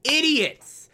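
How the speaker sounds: mock outraged viewer yelling at the screen; angry rant. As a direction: tell off the idiots with rising exasperation. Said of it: "you're so freaking angry".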